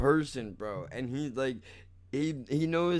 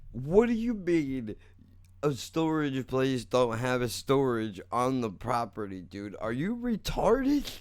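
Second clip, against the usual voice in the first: angry disbelief; 3 semitones higher, 5 dB louder than usual. Retold or imitated. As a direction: mimic his exasperated outburst at your dumb mistake. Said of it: "he said it with such anger".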